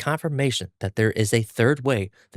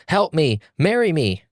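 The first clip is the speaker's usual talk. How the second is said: screaming plea; 7 semitones higher, slower than usual. Acted. Yellow-haired boy screaming at the girl, mock yell. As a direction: yell for rescue and marriage at once. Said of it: "the boy screaming at this girl".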